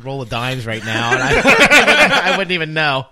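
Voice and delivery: talking with a burning tongue; laughing through a mouth on fire; mouth burning from spicy food. Real, not acted. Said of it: "The back of my tongue is literally on fire".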